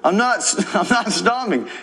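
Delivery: mocking Aaron. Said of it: "mimicking Aaron refusing".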